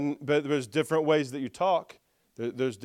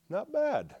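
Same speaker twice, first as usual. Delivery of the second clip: mentor's verdict; 8 semitones higher, 6 dB quieter than usual. Retold or imitated. Retelling mentor's verdict on his tongue.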